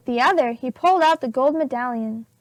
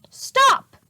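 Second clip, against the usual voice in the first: shout; 11 semitones higher, 4 dB louder than usual. A narrator's reading. Captain chasing his men.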